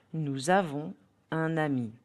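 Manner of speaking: "Nous avons" linked with z, "un ami" with n; French liaison. Shown as a demonstration. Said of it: "try to hear the liaison".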